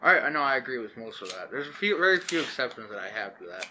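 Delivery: talking around a tobacco pipe; pipe in mouth. Real, not acted. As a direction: speak with a pipe clenched in your teeth. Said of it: "I've got my pipe in my mouth".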